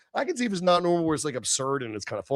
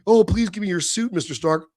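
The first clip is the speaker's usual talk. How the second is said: lightly voiced simpering teen, mildly higher; mock fawning fanboy; 5 semitones higher than usual. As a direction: fawn over Mister Stark like a starstruck kid, mockingly. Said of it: "These new movies with this, like".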